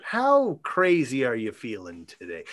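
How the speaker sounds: lightly voiced low-pitched proposition; Andral. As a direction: quote it a little low, deliberately. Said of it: "Andral says".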